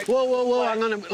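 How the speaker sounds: urgent whoa. Real, not acted. Urging the group to stop.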